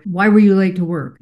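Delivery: "Why" pushed out as a mild accusation; stress on why. Shown as a demonstration. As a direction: lean on the opening "Why". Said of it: "That emphasis on the word why".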